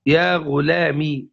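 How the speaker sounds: slow يا غلامي, ending in kasra "i"; kasra without ya. Shown as a demonstration. Teacher showing the second form, slow يا غلامي with kasra ending. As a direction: say يا غلامي slowly, closing on the "i" vowel. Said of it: "بحذف الياء الساكنة وإبقاء الكسرة".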